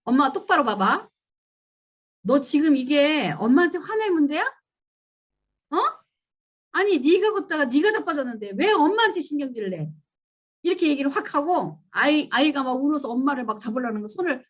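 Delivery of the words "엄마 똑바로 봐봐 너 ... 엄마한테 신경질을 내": a louder retold telling-off, pitched up; retold scolding. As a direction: scold the child sharply, in re-enactment. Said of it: "뭐라고 했냐면 이렇게 얘기했어요". (넘어진 아이를 다그치는 엄마, 재연한 꾸짖음)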